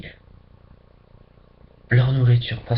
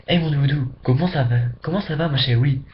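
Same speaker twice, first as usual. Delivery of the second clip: Martinican greeting; faster than usual. Retold or imitated. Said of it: "tu dis ça à quelqu'un".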